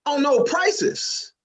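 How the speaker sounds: high, showy bragging, slowing at the end; cocky boast. Retold or imitated. Comic bragging to the store clerk, high and showy. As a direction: brag like a big shot. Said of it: "I was like".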